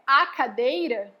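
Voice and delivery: slow "a cadeira", drawing out the "a"; article emphasised. Shown as a demonstration. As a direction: stretch the feminine "a" before "cadeira". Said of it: "Então, se é".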